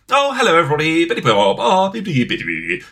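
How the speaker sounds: high, loud, gushing chatter; fake cheery meeting voice. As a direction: gush like a fake-friendly colleague. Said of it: "somebody who's all like".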